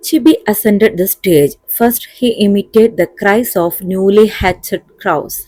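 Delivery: slow, deliberate English reading; measured classroom dictation pace; textbook read-aloud. A narrator's reading. Reads textbook passage aloud.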